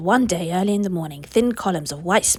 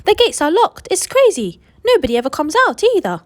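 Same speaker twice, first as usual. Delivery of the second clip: high, loud outraged shout; shouting crowd; 8 semitones higher, 7 dB louder than usual. Acted. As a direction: yell it at the locked gates. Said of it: "the people shouted".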